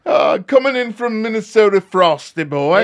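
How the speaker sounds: put-on a touch of New Zealand Kiwi accent; light New Zealand twang. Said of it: "requesting a New Zealand Kiwi accent".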